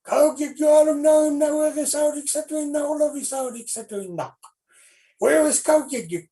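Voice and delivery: high, loud furious shouting; mean man yelling across the village in a panic; angry yelling. Acted. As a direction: bellow for the lazy boy.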